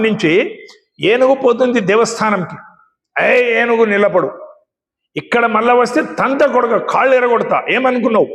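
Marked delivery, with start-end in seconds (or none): 3.2-8.3 mildly blustering frog threat; slightly raised, hammed-up frog scolding; mock scolding frog. Puffed-up frog threatening a passing elephant, mock scolding. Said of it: "ఏనుగుని తిడుతుంది".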